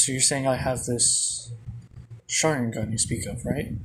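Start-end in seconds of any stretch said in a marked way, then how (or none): none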